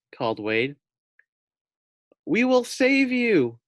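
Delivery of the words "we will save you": much higher, louder and slow; slow urgent call. A narrator's reading. Wade promising to rescue the pig, high slow shout. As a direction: stretch it out across the water.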